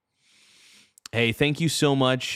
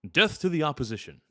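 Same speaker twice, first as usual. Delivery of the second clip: quick, higher Klingon war cry; Worf; 4 semitones higher, faster than usual. Acted. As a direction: declare it as a Klingon warrior. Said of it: "looking up famous Worf quotes".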